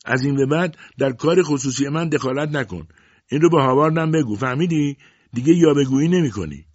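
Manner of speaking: high and loud, angry yelling; shouting. A narrator's reading. Mother yelling after her fleeing daughter, loud angry shout. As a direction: yell the warning after her. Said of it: "روزا فریاد زده بود".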